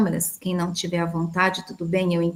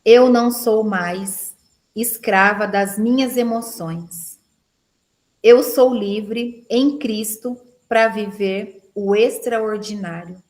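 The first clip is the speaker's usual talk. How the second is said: declaring aloud; 4 dB louder than usual. Shown as a demonstration. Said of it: "Declare assim, ó".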